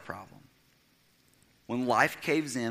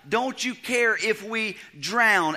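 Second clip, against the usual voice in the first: panicked disciples' plea; 9 semitones higher, 5 dB louder, slower than usual. Retold or imitated. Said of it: "ask the question to the Son of God".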